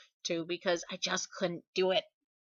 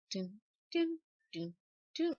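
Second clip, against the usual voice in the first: humming the tune; 3 semitones higher than usual. Shown as a demonstration. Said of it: "all the cute little noises".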